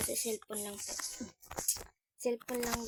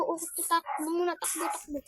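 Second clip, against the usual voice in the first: while running; 7 semitones higher, 5 dB louder than usual. Real, not acted. Fleeing again.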